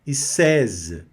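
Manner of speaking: seize, teacher demo; French word seize. Shown as a demonstration. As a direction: seize with an e sound and a z ending. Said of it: "E mais I, E, som de E".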